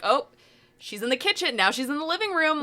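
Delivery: lightly mocking narrator, pitch rising at the end; mock commentary. Joking with a friend about the wife character, mock narration. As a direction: sarcastically call out where she is. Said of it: "kind of a running bit".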